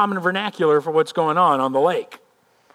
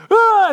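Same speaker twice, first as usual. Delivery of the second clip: high, loud yell of fright; acted panicked cry; terrified scream; 8 dB louder than usual. Fishermen recoiling from the ghost, terrified scream.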